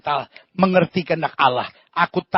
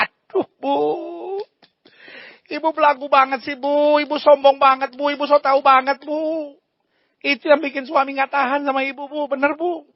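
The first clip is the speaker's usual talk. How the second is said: higher, teasing scold of the wife; tut-tut at a snobby wife; 8 semitones higher than usual. Acted. Pastor scolds the arrogant wife, mock-chiding.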